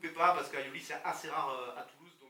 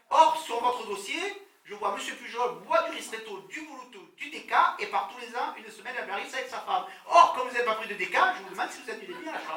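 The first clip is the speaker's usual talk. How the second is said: receptionist voice; 6 semitones higher, 7 dB louder than usual. Retold or imitated. Acted receptionist explaining the booking.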